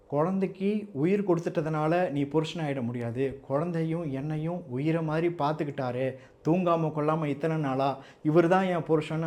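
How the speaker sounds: ordinary delivery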